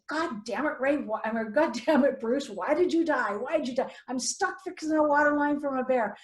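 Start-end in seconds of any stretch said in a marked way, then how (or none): 0.1-1.2 mildly worked-up retold cursing; cursing at someone in exasperation; exasperated outburst. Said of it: "this is exactly what I said". 1.5-6.2 higher-pitched, worked-up venting; retold overwhelmed complaining; distressed exasperation. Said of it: "I'm crying".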